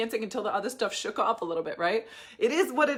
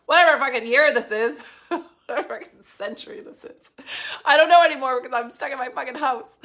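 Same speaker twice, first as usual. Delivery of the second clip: laughing; 3 semitones higher, 8 dB louder than usual. Acted. Joking about being stuck home.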